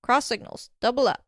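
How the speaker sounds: brisk cheerful correction, each item set apart; cheery snap back. Acted. Radio operator explaining the jargon, snapping back cheerily. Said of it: "snapped cheerily back".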